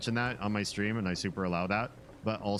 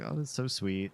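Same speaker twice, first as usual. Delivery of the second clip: a hint of coy, simpering gratitude; lightly voiced cutesy mock thanks; cutesy thank-you; 5 semitones higher than usual. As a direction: lightly play a sweetly gushing streamer. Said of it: "being a little bit cutesy".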